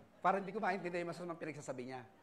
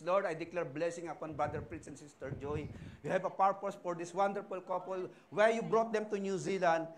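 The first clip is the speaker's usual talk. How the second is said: earnest pastor's prayer, building louder; 3 dB louder than usual. Acted. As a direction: declare the blessing with rising fervor. Prays over the couple.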